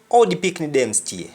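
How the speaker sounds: "Oh" for how, with no h; Jamaican dropped h. Shown as a demonstration. Teacher quoting a Jamaican greeting, h dropped from "Oh". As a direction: say "stay" as stee-eh and open on a bare "Oh". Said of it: "we don't pronounce the h".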